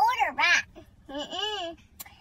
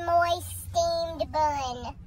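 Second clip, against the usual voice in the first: savoring it; much slower than usual. Real, not acted. Dreaming of her burger.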